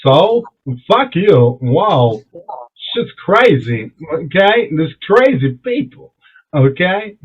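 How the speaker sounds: halting impression in short bursts with gaps; lightly voiced movie star, pausing between phrases; Christopher Walken. Refusing a gunman's order, halting star impression. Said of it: "Christopher Walken's like".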